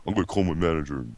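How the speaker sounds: put-on half-hearted teen voice, kept low; lightly imitated young usher, far too low; too-low fourteen-year-old. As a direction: threaten like a kid, but in a grown-up pitch. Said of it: "your voice was entirely too low".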